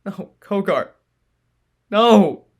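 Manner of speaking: high grieving scream; anguished cry. Acted. Sentinel's grief as friend dies.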